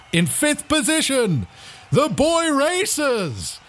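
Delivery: high, drawn-out stadium announcer; race announcer. Acted. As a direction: call out the line-up slowly, stretching each name. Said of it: "as they're being announced".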